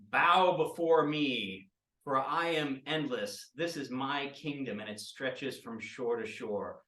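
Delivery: slow, loud, grandiose proclamation; booming slow villain proclamation; grand villain decree. Acted. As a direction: declare your endless reign, savouring every word.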